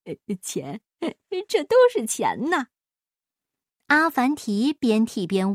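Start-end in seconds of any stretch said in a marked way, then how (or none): 0.0-2.7 hushed start swelling into glee; miser's delighted voice; delighted greed. A narrator's reading. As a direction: marvel greedily at the money. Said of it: "巴依老爷满心欢喜".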